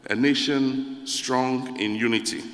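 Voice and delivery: slow, solemn anthem line; solemn recitation. Shown as a demonstration. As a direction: give each word weight, like a pledge. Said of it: "It says".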